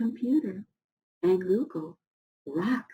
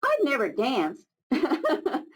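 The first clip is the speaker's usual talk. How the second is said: put-on Old Rock, cheerful; 3 semitones higher than usual. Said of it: "said Old Rock".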